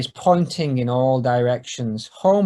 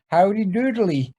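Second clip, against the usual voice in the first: Ned Flanders voice; 6 semitones higher than usual. Acted. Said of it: "he says".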